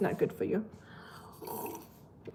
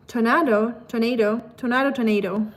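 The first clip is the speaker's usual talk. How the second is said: southern accent demo. Shown as a demonstration. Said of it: "frog in your throat if you wanna sound southern".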